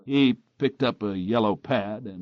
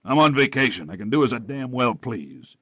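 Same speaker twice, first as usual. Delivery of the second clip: angry; 3 semitones higher, 5 dB louder than usual. Acted. Angry quarrel with his investigator.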